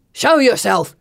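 loud, frightened shout; raw fear. Acted. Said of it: "voice is raw with fear".

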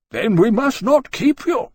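slow, loud, high-pitched formality; deliberate, cutting courtesy; icy dismissal. Acted. Musgrave showing Jane the door, icy. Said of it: "he said rather icily".

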